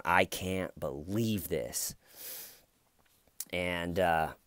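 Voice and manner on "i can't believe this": slow stunned disbelief. Retold or imitated. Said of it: "sitting there going".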